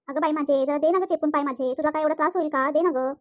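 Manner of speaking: mother-in-law whining at her daughter-in-law; whiny old mother-in-law. Acted. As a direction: coax her to press your legs.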